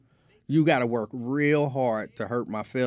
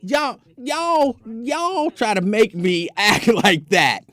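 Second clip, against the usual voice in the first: laughing; 7 semitones higher, 6 dB louder, slower than usual. Real, not acted. Laughing protest at chat.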